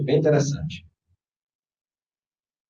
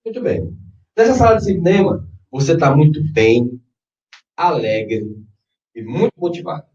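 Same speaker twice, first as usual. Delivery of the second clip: guided meditation. Acted. Leads a guided visualization.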